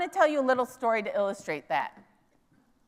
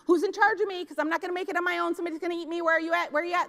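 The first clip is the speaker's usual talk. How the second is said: higher, hurried little duckling searching for mama; anxious duckling; 4 semitones higher, much faster than usual. Retold or imitated. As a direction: voice the panicked chick looking around. Newly hatched duckling searching.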